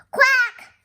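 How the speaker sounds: loud, high duck quack; big squawking duck reply; duck's answer. Acted. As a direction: quack back sharply and high. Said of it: "The duck answered".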